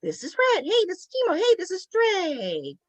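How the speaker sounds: lightly imitating our hello; a hint of a cheery intro; podcast greeting. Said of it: "we're, like, saying, "Hey," to our peeps".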